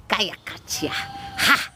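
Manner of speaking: rhythmic chanted syllables with sharp breathy ha's; light language channeling. Acted. Healer channeling light language for livestream viewers, chanted. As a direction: intone it like channeling spirit words.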